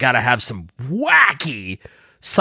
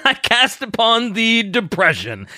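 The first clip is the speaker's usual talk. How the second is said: stagey fake archaic declaiming; 6 semitones higher than usual. Mock spell casting joke.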